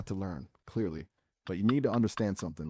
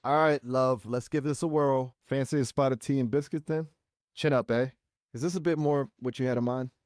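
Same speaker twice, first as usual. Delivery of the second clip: higher, chipper British accent; hammed-up British accent; 4 semitones higher than usual. Shown as a demonstration. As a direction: put on a British accent, pitched up. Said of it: "Sound British".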